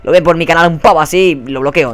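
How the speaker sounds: ordinary delivery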